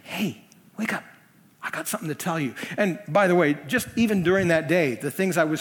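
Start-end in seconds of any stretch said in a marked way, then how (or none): 0.0-2.5 much softer, hushed nudge; a quiet voice from within; a gentle inner wake-up call. Retold or imitated. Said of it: "the God who is in me said".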